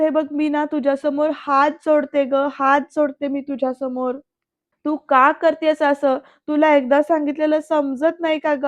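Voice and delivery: mildly exasperated, fed-up pleading; retold tearful anger. Daughter begs Anandi to listen, retold in tearful anger. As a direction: act out cross, upset scolding lightly. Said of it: "असं म्हणत ना रागावून, चिडून, रडून".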